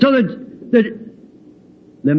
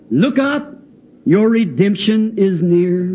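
put-on old hymn recitation. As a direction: recite the hymn solemnly to a congregation. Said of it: "As the old song says".

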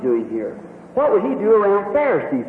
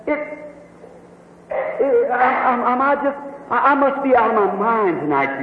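tearful stammer; 5 semitones higher than usual. Acted. Woman stammering, near tears.

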